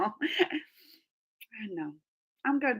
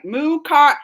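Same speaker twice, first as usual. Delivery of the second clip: choppy slow take; 5 semitones higher, 11 dB louder than usual. Shown as a demonstration. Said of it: "I gotta say it real fast together".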